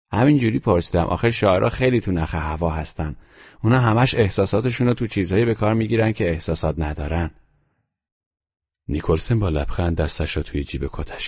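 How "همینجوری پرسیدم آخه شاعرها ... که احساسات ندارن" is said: put-on a calm, serious boy's voice, a little higher; boy Teddy, matter-of-fact. Teddy tells Nicholson about his European trip, in a calm, higher boy's voice. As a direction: voice the grave child reporting his trip.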